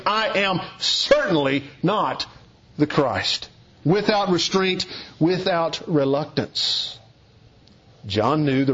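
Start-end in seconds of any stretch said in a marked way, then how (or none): 0.0-3.5 slow, weight on "certainly not"; emphatic denial. Shown as a demonstration. Preacher voicing John's firm denial to the delegation, emphatic. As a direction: stretch "certainly not", then drop onto "the Christ". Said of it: "he answers it emphatically".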